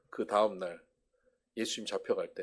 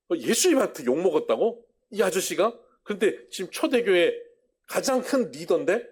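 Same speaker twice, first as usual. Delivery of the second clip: 예수님한테 rising high and louder in disbelief; can't believe his ears; shocked disbelief; 6 semitones higher, 5 dB louder than usual. Acted. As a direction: ask it astonished, pitch climbing on 예수님한테.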